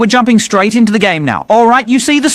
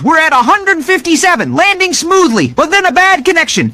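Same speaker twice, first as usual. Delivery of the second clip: higher, lively gaming commentary; excited play-by-play; 5 semitones higher than usual. Real, not acted. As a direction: call the match as it happens, pumped. Excited gameplay commentary, raised pitch.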